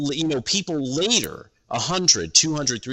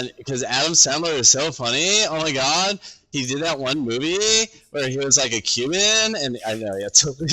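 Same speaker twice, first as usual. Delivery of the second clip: a lightly voiced airy young person, drifting up at the end; mock millennial chatter. Shown as a demonstration. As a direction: play a breezy youngster chatting about the mall. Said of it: "let me try".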